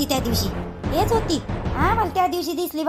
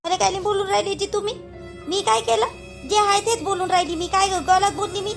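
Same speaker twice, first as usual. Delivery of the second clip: indignant protest; 7 semitones higher than usual. Acted. Indignant defence against accusation.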